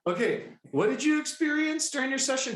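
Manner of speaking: high, put-on professional question; mock-composed high voice; forced composure. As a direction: pitch it up, pretending all is fine. Feigning composure while inwardly freaking out.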